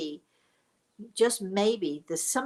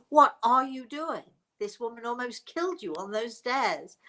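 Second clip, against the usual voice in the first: incredulous protest; 4 semitones higher than usual. Retold or imitated. Daughter appalled at mother hugging the stranger, incredulous protest.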